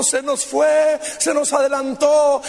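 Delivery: hammed-up graveside grief; mock mourning. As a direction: mimic the grieving relatives. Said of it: "toda llore y llore".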